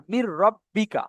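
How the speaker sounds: "মির" runs straight into "রব্বিকা" on a doubled r; joined doubled r. Shown as a demonstration. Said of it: "একে একে উচ্চারণ হবে".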